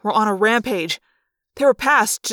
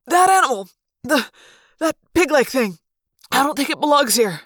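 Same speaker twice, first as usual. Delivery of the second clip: excited; 4 semitones higher than usual. Acted. Controller points out animal.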